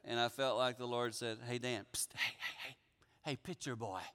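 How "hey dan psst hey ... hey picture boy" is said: low, hushed psst for attention; discreet calling. Acted. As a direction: quietly call someone over, as if secretly. The Lord discreetly gets his attention.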